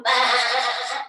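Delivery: lightly voiced sheep baa; a gentle playful baa for the kids; sheep bleat. Teacher leading kids as sheep, light baa. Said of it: "Show me your nice woolen coat and go".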